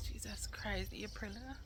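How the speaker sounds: sudden hushed whisper; whispered aside. Real, not acted. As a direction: drop to a whisper.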